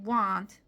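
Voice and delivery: "want" loud, with a barely-there onset before it; strong, full "want"; stressed want. Shown as a demonstration. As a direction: punch "want" after a swallowed subject. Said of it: "이렇게 저는 연습할 때도".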